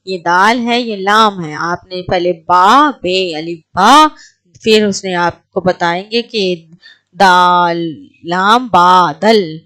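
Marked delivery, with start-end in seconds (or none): 1.5-9.6 letters spelt out one by one, then blended; sounding out letters. Shown as a demonstration. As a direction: drill each letter sound slowly for beginners. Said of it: "ہم اس کو کیا کہتے ہیں؟".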